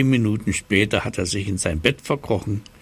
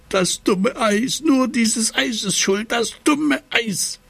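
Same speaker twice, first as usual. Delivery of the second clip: hoch und langsam schimpfen; knurrend; 13 semitones higher, slower than usual. Acted. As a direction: zitternd vor Kälte über das Eis meckern. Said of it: "er knurrt". (der frierende Seppel schimpft hoch und langsam über das Eis)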